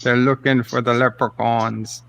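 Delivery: mock Irish countryman; lightly hammed-up Irish brogue; put-on Irish accent. Host spins a leprechaun tale in put-on Irish accent. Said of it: "give him the full Irish".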